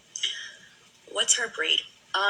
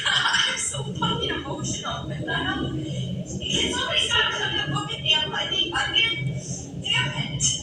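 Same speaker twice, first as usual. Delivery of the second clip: teary and much higher, laughing through tears; crying. Real, not acted. Crying on camera and blaming an onion, real tears. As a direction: cry it out, half-laughing at yourself. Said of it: "I gotta stop crying".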